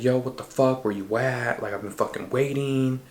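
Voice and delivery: mildly aggressive impatient demand. Retold or imitated. Friend phoning to complain about waiting, mildly aggressive. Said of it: "he was very aggressive with me".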